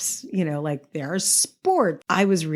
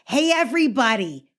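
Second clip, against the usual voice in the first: brash tough-guy New York call, high on meet; mock Cagney gangster shout to the bunk; brash old-movie tough guy; Jimmy Cagney; 8 semitones higher than usual. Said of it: "everyone in the bunk was Jimmy Cagney".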